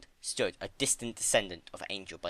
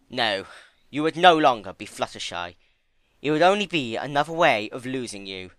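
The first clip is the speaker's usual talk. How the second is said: Discord voice; 3 semitones higher, 7 dB louder than usual. Acted. Discord pleads with Fluttershy.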